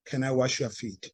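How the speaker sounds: a soft, sincere request. Retold or imitated. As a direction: ask it gently and sincerely. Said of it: "he would be so sincere".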